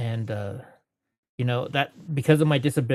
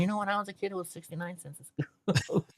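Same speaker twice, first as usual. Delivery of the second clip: higher, softer mimicking voice; mock old-timer; 7 semitones higher, 6 dB quieter than usual. Joking that we now complain like those customers, high mock voice. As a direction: imitate today's nostalgic customer, high and hushed. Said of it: "people going there and saying".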